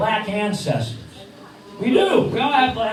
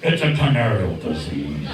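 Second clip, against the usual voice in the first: puppet bird voice. Acted.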